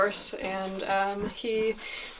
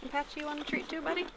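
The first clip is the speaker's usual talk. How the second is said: talking to a pet; 6 semitones higher, 6 dB quieter, faster than usual. Real, not acted. Offering horse a treat.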